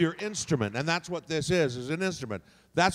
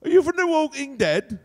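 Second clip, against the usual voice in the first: higher, louder, excited Aussie storyteller; loud Australian accent; 6 semitones higher, 8 dB louder than usual. Shown as a demonstration. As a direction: marvel at the zombie like a wild Aussie. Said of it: "add an accent".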